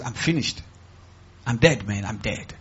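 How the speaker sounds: low, soft mock woe; self-pitying. Church member angling to borrow money, mock self-pity. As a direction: play up the self-pity in a sunken voice. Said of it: "because you want self-pity".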